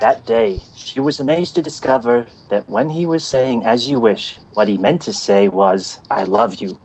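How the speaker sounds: lightly acted story reading, falling in pitch; storybook grandpa impression. Shown as a demonstration. Podcaster performing a prepared film bit, grandpa reading a story. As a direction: read it out as the grandfather, tenderly landing the last words. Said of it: "I do have something prepared".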